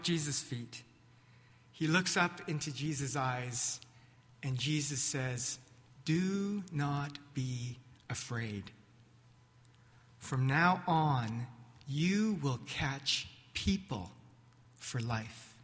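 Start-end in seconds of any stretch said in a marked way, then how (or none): 6.0-15.5 reassuring. Acted. Jesus reassuring kneeling Peter.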